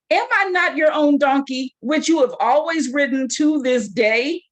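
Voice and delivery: a touch of the offended donkey, lightly voiced; lightly voiced donkey talking back to Balaam; indignant donkey. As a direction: push back like a wronged pet.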